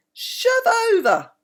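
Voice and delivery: put-on high, hissed raccoon-kid squabble; squeaky whisper-shout. Raccoon twin shoving his brother in the hammock, high hissed squabble. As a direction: shove your brother out of the hammock in a tiny hiss.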